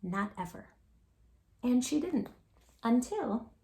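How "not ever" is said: firm. A narrator's reading. Firm quiet vow.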